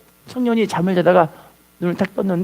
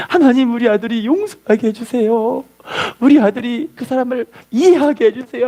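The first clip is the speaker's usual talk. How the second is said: acted plea, slightly raised voice; tearful prayer; 4 semitones higher than usual. Mother at son's door each dawn, mildly tearful prayer. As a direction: imitate a mother praying through tears, understated. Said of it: "눈물을 펑펑 쏟으며 기도를".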